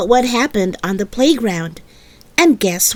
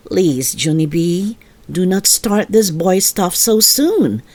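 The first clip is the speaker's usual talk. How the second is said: gentle mother; 6 semitones lower than usual. Acted. Mother gently telling her daughter she is too young.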